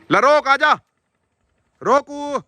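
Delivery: high, loud call for the dog. Real, not acted. Farmer calling his missing dog Rock, loud and high. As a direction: shout across the field for Rock.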